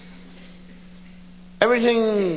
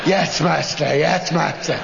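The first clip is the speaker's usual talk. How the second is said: obedient servant to master; 4 semitones lower than usual. Acted.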